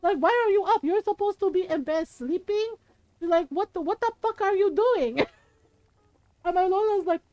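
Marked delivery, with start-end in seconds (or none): 0.0-2.8 high-pitched scolding mom. Retold or imitated. Mother catching her kids out of bed, scolding. 3.5-5.2 high-pitched, fed-up mom imitation; exasperated scolding. Mother catching her kids in the hall, exasperated.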